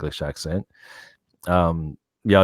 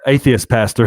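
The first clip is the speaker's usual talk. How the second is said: PASTOR with an American short "a"; American accent; 4 semitones higher, 6 dB louder than usual. Shown as a demonstration. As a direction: say "pastor" the American way, with a flat A as in "cat". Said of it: "I should say that in an American accent".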